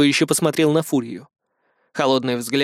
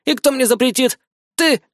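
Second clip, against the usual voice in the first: high, disdainful challenge; haughty boy; 9 semitones higher than usual. A narrator's reading. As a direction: look down your nose and dare her. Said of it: "Надменно посмотрев на свою защитницу".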